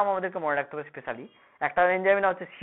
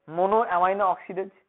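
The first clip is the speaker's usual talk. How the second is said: slow syllable-by-syllable; slow and deliberate; much slower than usual. Shown as a demonstration. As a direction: spell it out slowly. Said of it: "কেটে কেটে উচ্চারণ করবি সবসময়".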